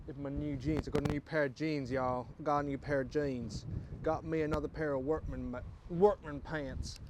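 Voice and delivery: put-on casual southern US accent. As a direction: slip back into a southern twang. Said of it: "using my best southern accent".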